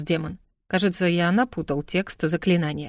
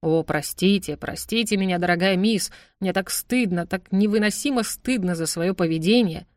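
mock remorse. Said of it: "изображая глубокое раскаяние".

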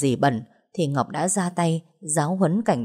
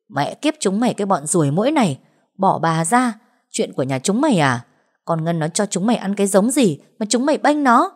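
shrewish cursing; 2 semitones higher, 3 dB louder than usual. Acted. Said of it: "mồm vẫn chua ngoa chửi".

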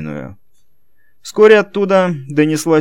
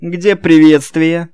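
медленно, громко и со злостью; процедить с угрозой; злобно; 7 semitones higher, 6 dB louder, much slower than usual. A narrator's reading. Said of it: "злобно поинтересовался". (Роберто злобно требует приветствия)

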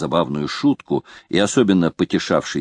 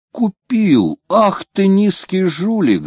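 much higher, louder outraged shout; furious shout; 12 semitones higher, 3 dB louder, slower than usual. A narrator's reading. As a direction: explode at the swindler. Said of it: "закричал Кливленд". (капитан в ярости кричит на жулика)

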